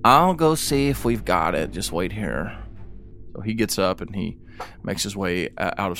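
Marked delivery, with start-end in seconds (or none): 0.0-2.6 flustered clerk voice. Acted. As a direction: caught off guard, stammer it.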